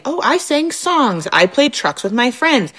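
a hint of a little kid chirping; toddler voice. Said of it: "My two-year-old from the daycare".

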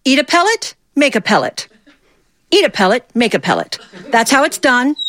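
high, sing-song teacher showing the class a rabbit. Retold or imitated. Fifth-grade teacher calling the class to watch the rabbit, high and sing-song. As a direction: pitch way up like a delighted teacher pointing at the rabbit. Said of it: "she'd go".

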